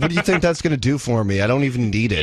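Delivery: loud, indignant comeback; real angry outburst. Real, not acted. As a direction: fire back loudly at the insult. Caller snaps back at insult.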